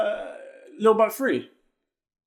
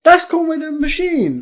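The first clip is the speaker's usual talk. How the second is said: higher, louder, drawn-out realisation; emphatic insistence; 6 semitones higher, 5 dB louder, slower than usual. Real, not acted. Co-host insisting to the host who the featured rapper is, emphatic. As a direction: insist on it, raised and slow.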